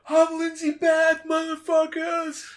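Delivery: very high, drawn-out mock scream; over-the-top shriek, stretched slow; Lindsay Beck. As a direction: yell it out the car window, defiant and hammed-up. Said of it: "Yell out the window".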